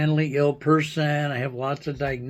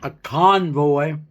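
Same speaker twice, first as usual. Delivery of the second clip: pretend hillbilly. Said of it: "pretend hillbilly slang".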